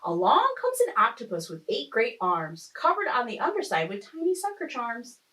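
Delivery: lilting rhymed storytelling; expressive story-time reading; picture-book narration. A narrator's reading. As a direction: read the rhyme aloud to young children. Reads picture book aloud.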